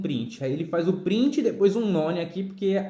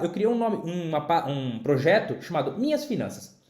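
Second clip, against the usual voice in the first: blocked nose from a cold; talking through a stuffy nose. Real, not acted. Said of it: "eu tô meio gripado".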